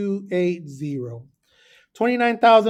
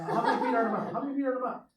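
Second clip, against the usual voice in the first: mock coach quiz; 4 semitones higher, 8 dB quieter, much faster than usual. Coach quizzing the player again.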